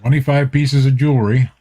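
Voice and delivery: talking with a mouth full of apple; words around a bite of apple; chewing an apple. Real, not acted. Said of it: "chomping on my apple over here".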